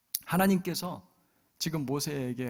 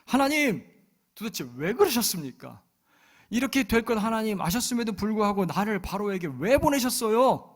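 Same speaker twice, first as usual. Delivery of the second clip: higher, louder indignant challenge; protesting to God; 7 semitones higher, 6 dB louder than usual. Retold or imitated. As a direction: demand an answer from God. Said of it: "따지기 시작합니다". (하나님께 따지듯 높고 크게)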